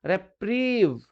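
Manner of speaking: रेप्रीव with a long ee in "प्री". Shown as a demonstration. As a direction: draw out the ee of रेप्रीव. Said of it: "आ रही है ना बड़ी ई की sound".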